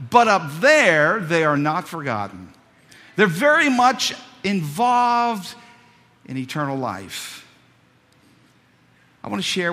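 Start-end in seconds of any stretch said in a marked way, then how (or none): 0.1-7.5 preaching proclamation. Acted. Preacher proclaims heaven's remembrance.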